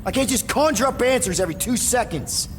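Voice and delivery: high, frustrated retort; exasperated snapping. Acted. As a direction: push back, fed up with questions. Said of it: "Here to yell at me some more?".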